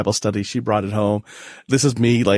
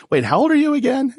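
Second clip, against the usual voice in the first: much higher, startled realization; sudden surprise. Retold or imitated. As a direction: jump up in pitch as it dawns on you.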